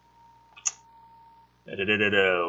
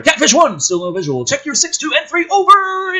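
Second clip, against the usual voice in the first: higher, louder pilot call over the radio; radio chatter; 7 dB louder than usual. Acted. Pilot calling wingmen, loud and high radio voice. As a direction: bark it like a fighter pilot on comms. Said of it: "Radio chatter".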